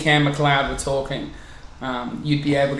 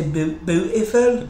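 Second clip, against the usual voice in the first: put-on Welsh accent; 2 semitones higher, slower than usual. Showing how Welsh people say it, Welsh accent. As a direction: imitate a Welsh speaker saying it. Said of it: "like, Welsh people, they say".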